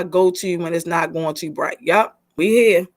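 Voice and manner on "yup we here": drawn-out "Yup, we here", settled and steady; slow catchphrase. Shown as a demonstration. Host repeating her go-to line to the team, slow and steady. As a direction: say "we here" slowly, like a mantra. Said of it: "We here is my way".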